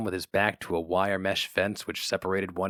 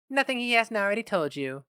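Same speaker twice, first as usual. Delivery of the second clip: higher, quick enthusing secretary; gushing secretary; 11 semitones higher than usual. A narrator's reading. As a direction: gush about the free drinks. Secretary ends call.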